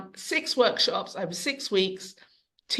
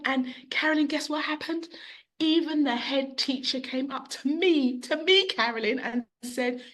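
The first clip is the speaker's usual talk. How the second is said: lightly voiced child, higher pitched; delighted child; 5 semitones higher than usual. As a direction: imitate a child eagerly sharing big news. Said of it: "the child came in".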